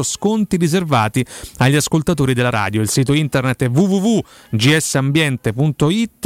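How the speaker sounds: radio ad read; upbeat sponsor read, spelling out the details; infomercial. Acted.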